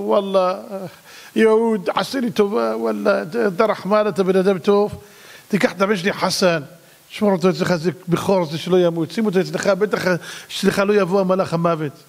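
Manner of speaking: mock-tearful begging, lightly acted; tearful pleading. Egyptian begging a Jew to shelter his son, mildly tearful. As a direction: plead as if close to tears. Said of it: "המצרי בוכה".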